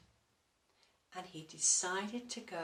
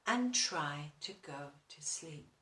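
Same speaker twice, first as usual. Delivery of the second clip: ordinary delivery, nothing marked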